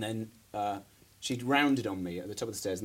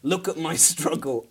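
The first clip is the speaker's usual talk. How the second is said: higher, louder, slower mock wail with a laugh breaking in; mock breakdown; 6 semitones higher, 5 dB louder than usual. A storyteller mimicking a sobbing mother, half laughing, mock wail. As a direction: ham up her sobbing plea. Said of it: "started breaking down and went".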